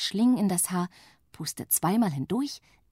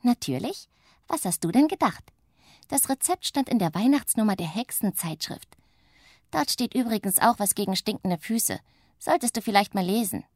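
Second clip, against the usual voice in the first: higher, teasing witch voice; cheeky little witch; 4 semitones higher than usual. Acted. Little witch teases her grumpy sister, higher cheeky voice. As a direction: needle your sister sweetly.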